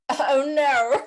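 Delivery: high, loud "Oh, no" with long rounded vowels; accented oh no. Retold or imitated. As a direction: mimic a strong regional accent on "Oh, no". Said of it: "people with the strong accents will go".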